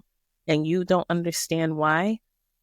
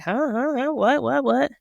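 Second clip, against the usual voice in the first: high, stammering what what what; shocked disciples; 6 semitones higher than usual. Acted. Disciples hearing of a betrayer, sputtering in shock. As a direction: sputter in stunned disbelief. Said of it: "they're all like".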